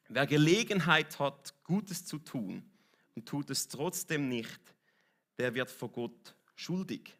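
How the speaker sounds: slow, measured verse reading; scripture reading. Acted. Preacher reading James to the congregation, slow and measured. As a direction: read it out slowly, pausing between phrases. Reads a Bible verse aloud.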